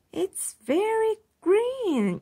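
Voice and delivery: yelled. A narrator's reading. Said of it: "yelled Iris".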